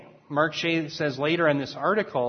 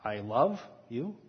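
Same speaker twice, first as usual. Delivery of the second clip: "love" drawn out slow and soft; tender I love you; 4 semitones lower, 6 dB quieter, slower than usual. Shown as a demonstration. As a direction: breathe "I love you" slowly and gently. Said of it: "The next one would be".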